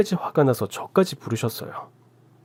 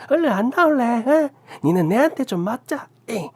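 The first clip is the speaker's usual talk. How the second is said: furious rant; 9 semitones higher than usual. A narrator's reading. Aunt raging at the couple and calling out her nephew. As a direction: tear into them, then threaten the nephew.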